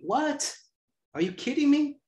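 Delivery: high, startled disbelief; mock shock. Playing the girl who hears the juice place is across the street, mock shocked. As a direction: gasp it out like you can't believe it.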